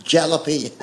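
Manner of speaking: "jalapeno" with the J sounded as in jam; J-for-jam "jalapeno", said in earnest; cousin's mispronunciation. Retold or imitated. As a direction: say "jalapeno" starting on a hard English J. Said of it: "he calls it jalapeno".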